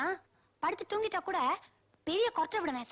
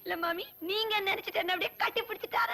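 giggly telling; amused, giggles at the end; laughing while talking. Acted. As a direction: let laughter break up the sentence. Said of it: "இல்ல சிரிச்சிட்டு சொல்லு".

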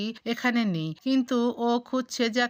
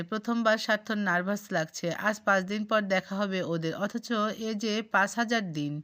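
usual speaking voice

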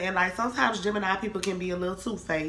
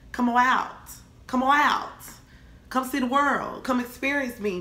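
coaxing call building up; 5 semitones higher than usual. Pretend. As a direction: lure them out playfully. Coaxing, rising.

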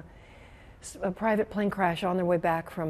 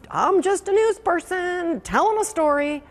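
mock detached newsreader; 8 semitones higher, 7 dB louder than usual. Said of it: "you know".

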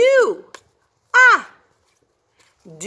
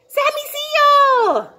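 slow, high intro; 11 semitones higher, 4 dB louder, slower than usual. Acted. Character intro.

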